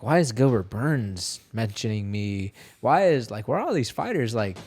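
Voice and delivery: acted-out bewildered questioning, pitch jumping up; mock-confused protest; baffled. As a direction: replay puzzled disbelief, voice climbing on the questions. Retells his baffled reaction to messages.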